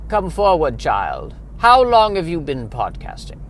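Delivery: lightly voiced grand old mother superior; Reverend Mother. Reverend Mother calling a young podcaster forward, lightly voiced. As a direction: summon the child like an ancient abbess. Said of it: "Reverend Mother".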